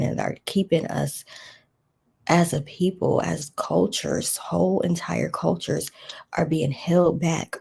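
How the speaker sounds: earnest spoken prayer. Acted. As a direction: pray it out steadily.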